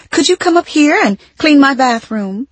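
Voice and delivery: acted calling-out in a high voice. A narrator's reading. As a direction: call it out as a summons from a distance. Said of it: "a woman called out to my mother".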